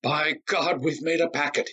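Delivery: high, gleeful exclaim; excited cry. Acted. Myron tosses cash on the bed, crying out with glee. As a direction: crow over the winnings. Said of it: "he cried".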